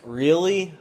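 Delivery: high, loud shocked question; retold panic. Boy learning his girlfriend may be moving, panicked. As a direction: pitch and volume jump in alarm. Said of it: "I started panicking".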